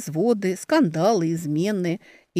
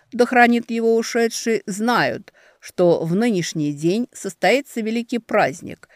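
herald's proclamation; 4 dB louder than usual. Acted. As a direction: proclaim it over the crowd. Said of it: "Он говорил это чётко и громко".

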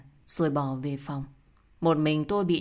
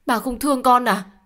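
higher, louder pleading cry; anguished plea; 7 semitones higher, 7 dB louder than usual. Acted. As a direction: beg him, voice rising high. Daughter pleads louder with father.

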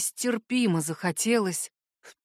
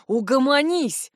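slow, higher, louder annoyed command; irritated; 5 semitones higher, 4 dB louder than usual. A narrator's reading. Valt to his cousin, irritated. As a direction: cut him off, fed up. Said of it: "раздражённо дёрнул головой Вальд".

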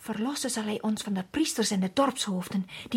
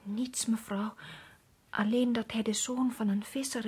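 whispered, fearful answer; 3 semitones lower, 5 dB quieter than usual. Acted. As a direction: whisper it so no one overhears. Frightened servant answers secretly.

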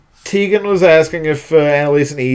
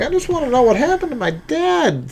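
Gabe impression; 11 semitones higher, 4 dB quieter, faster than usual. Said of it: "I've been working on my Gabe".

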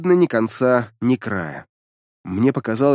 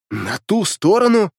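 slow, higher stunned question; 6 semitones higher than usual. A narrator's reading. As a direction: echo it in disbelief. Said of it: "ошарашенно произнёс я".

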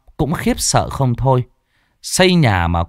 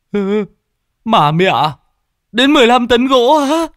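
high, loud shocked squawk; Lâm Sẹo shrieking in disbelief at the load; shocked outcry; 13 semitones higher, 5 dB louder than usual. Acted. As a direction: yelp in disbelief at the amount. Lâm shocked at fifteen tons.

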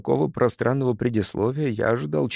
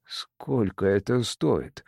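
trembling voice; much slower than usual. Acted. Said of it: "спросил я с дрожью в голосе".

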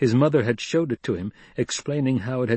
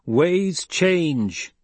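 dryly; 7 semitones higher than usual. Acted. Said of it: "Paul spoke dryly".

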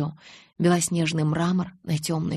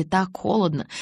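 usual speaking voice

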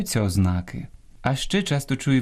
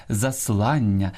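заслання stressed on ЛАН, slow; stress on middle syllable; slower than usual. Shown as a demonstration. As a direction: say за-СЛАН-ня. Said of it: "Ось так наголошуються".

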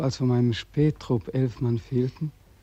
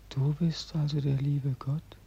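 whisper; 3 semitones higher, 7 dB quieter than usual. Acted. Beckmann first addresses God.

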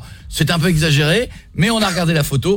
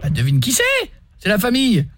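prank caller in a put-on Midi accent, pitched up; southern French accent; 6 semitones higher than usual. Prank caller to Thérèse, fake Midi accent. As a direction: sing the Midi twang while asking her to guess. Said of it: "qui a un accent".

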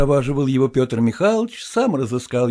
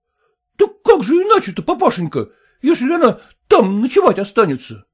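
high, tearful, pleading cry; whimpering son-in-law; 10 semitones higher, 6 dB louder than usual. Acted. Son-in-law begging his father-in-law, tearful whining. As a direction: whine like you might burst into tears.

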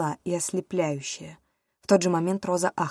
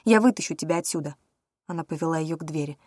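ordinary delivery

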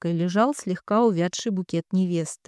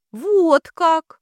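laughing through tears; 9 semitones higher, 8 dB louder than usual. A narrator's reading. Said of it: "сквозь слёзы рассмеялась Катенька".

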